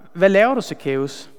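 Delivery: cynical, pushed through the teeth; a distrustful neighbour sneering at the tax collector. Acted. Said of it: "alle kunne bare høre kynismen".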